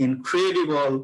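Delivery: "ইনক্রেডিবল" with weight on the second syllable; stressed key word. Shown as a demonstration. Teacher picks out the stressed words for students, stress on "ইনক্রেডিবল". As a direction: lean on the CRE of "ইনক্রেডিবল". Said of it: "যে stress গুলো ওরা দিল".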